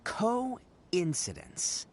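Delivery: coincidence stretched out slowly; drawn-out word. Shown as a demonstration. Explaining the word to Paimon, coincidence drawn out slowly. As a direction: lean on coincidence, drawn long and slow. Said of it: "this word that really sums it up".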